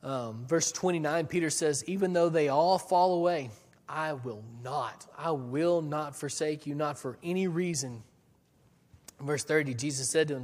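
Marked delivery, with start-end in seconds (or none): 1.9-8.0 mildly impassioned pledge of loyalty; emphatic vow. Acted. Peter vows loyalty to Jesus, emphatic. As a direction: insist firmly, leaning on the key words.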